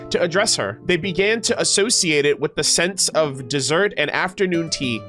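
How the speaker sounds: measured, articulated storyteller read; lore narration. Acted. Streamer reading about Lady Marionette's names, storybook narration. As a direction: narrate the character history for an audience. Reads character lore aloud.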